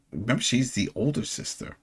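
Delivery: a hushed aside to the listener; whispered aside. Real, not acted. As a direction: drop to a whisper for the reminder. Aside reminder to cohost.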